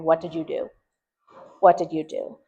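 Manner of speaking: blaming "What did you do?", falling at the end; a parent demanding who's to blame; accusing question. Shown as a demonstration. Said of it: "When we should be saying".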